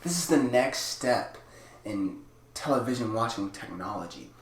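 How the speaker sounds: a hint of a grand product pitch; half-serious Apple-style launch voice; lightly voiced tech presenter. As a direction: pitch the gadget like a keynote. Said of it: "let me get into character".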